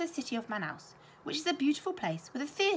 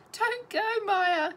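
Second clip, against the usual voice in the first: put-on high, loud little-girl wail; child's wail; 11 semitones higher, 6 dB louder, much slower than usual. A narrator's reading. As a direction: plead like a small girl begging her to stay. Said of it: "she wailed".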